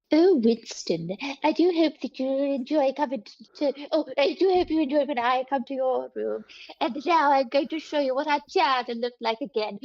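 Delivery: imitating Loma. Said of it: "do Loma, do Loma. Go".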